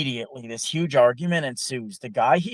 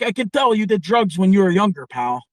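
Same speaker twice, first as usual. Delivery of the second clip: much higher, louder fast mock tirade; imitated angry rant; 6 semitones higher, 8 dB louder than usual. Italian co-worker berating the nonstop talker, loud mocking rant. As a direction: pile on the sarcasm at him. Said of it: "he finally lost it on Ron".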